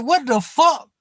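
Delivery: high-pitched, baffled retold outburst; incredulous reaction. Streamer retells his reaction to the troll, incredulous. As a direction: replay your disbelief, pitch jumping up.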